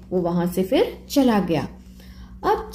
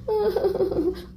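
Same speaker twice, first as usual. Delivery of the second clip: sob; 9 semitones higher, 5 dB quieter than usual. Acted. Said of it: "तो चिंकी रोने लगी".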